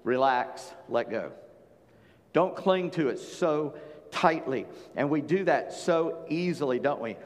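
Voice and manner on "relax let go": calm release. Shown as a demonstration. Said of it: "The literal translation in our modern language is".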